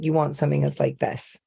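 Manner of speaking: lightly done generic Scottish accent; television Scottish accent. Shown as a demonstration. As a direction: demonstrate a TV-style Scottish accent. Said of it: "television Scottish accent".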